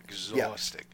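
breathy whispered echo. Real, not acted. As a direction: whisper it, drained.

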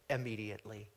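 low, hushed Immediately. held back before the burst; whisper-close Immediately. as a setup; dropped quiet. Shown as a demonstration. Preacher teasing the congregation with a hushed Immediately. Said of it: "You ready?".

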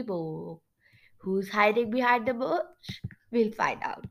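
suspenseful storybook reading; storyteller closing the chapter; story narration. A narrator's reading. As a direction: narrate toward a cliffhanger. Reads story narration aloud.

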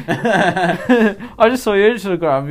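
aussie tradesman. Pretend. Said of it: "continues the acted Aussie bit".

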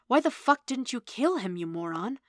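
high, incredulous outburst; exasperated. A narrator's reading. Android berating her partner for sparing a man, exasperated. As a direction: berate him, pitch leaping up.

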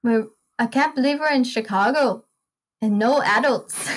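lightly attempted Irish accent; a hint of an Irish teen's voice; imitated Irish teenage girl. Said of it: "replicate her voice perfectly".

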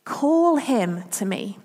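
a touch of tender authority; calm and gentle. Retold or imitated. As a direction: gently call him over. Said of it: "and he says".

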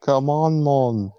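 attempted Jamaican accent. Player voicing a friend, attempted Jamaican accent. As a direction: have a shaky go at a Jamaican accent. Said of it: "like, a Jamaican accent".

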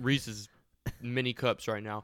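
chewing while talking; mouth full. Real, not acted. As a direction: talk through a mouthful of candy. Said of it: "I'm eating".

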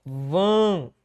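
"Vândalo" with VÂN held long, then da, lo apart; syllable split. Shown as a demonstration. Teacher writing out syllables, "Vândalo" said piece by piece. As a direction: break "Vândalo" into three slow separate syllables. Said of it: "a sílaba tônica bem aqui".

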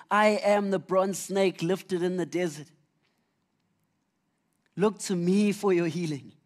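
solemn voice of Jesus. Acted. Voicing Jesus, slow and solemn.

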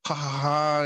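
put-on "ha, ha, ha"; mock scheming laugh. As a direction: fake the laugh of gloating schemers. Mimics elites laughing and scheming.

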